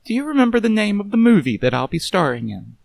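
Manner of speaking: sharp, mocking movie star voice; Vivian, mocking. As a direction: scoff at the detective coolly.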